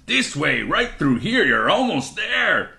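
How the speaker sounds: high, sing-song luring call; fake Mister Yazzie. A narrator's reading. Fake toad lures boy into the trap, high sing-song urging. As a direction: coax them onward, stretching the last words. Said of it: "the fake Mister Yazzie says".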